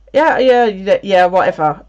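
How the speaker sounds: dismissive. Retold or imitated. Dismissing Alex from bed.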